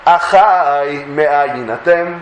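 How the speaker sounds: slow, drawn-out, caring greeting; loving brotherly address. Acted. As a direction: address them gently as brothers, stretching the words. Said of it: "אח שמביע מתוך דאגה ומתוך אהבה". (פנייה אוהבת ואיטית של אח)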